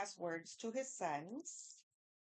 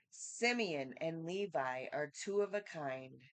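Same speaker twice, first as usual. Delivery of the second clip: scripture reading; 5 dB louder than usual. Acted. Reads scripture aloud.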